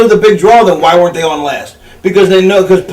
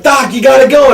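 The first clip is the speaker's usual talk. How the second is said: frantic yell; 6 semitones higher than usual. Retold or imitated. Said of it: "Paulie's like".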